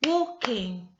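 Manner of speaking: WALKING loud, in two beats; clapped beats. Shown as a demonstration. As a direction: mark both syllables, WALK-ING. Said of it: "I'm going to clap as I say the word".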